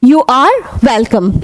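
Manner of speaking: stretched out very slowly for learners; slow demo. Shown as a demonstration. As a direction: say each word slowly and clearly. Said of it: "अब देखिए".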